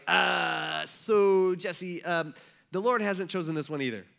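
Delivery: drawn-out hesitant "uh" before bad news; stall, then let him down; awkward stalling. Samuel rejecting Jesse's son, awkward and hesitant.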